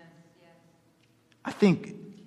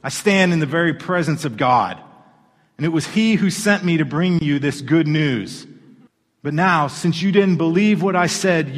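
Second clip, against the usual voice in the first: angel Gabriel; 3 dB louder than usual. Retold or imitated. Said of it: "He says".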